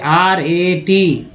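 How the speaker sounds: letters R, A, T spelled out slowly; spelling out letters. Shown as a demonstration. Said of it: "ए को क्या बोल रहे हैं भाई".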